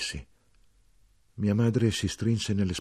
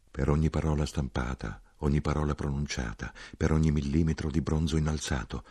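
low weary soldier; 3 semitones lower than usual. Acted. Soldier figure voiced low.

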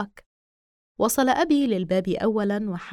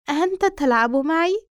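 higher, louder taunting doll; creepy doll voice; 6 semitones higher, 4 dB louder than usual. Acted. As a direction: tease like a sinister toy.

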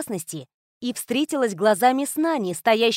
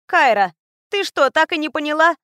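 exasperated; 6 semitones higher, 6 dB louder than usual. A narrator's reading. Tata scolds heroine.

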